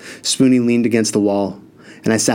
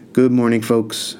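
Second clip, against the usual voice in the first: cheerful greeting; slower than usual. Acted. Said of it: "he said, full of cheer".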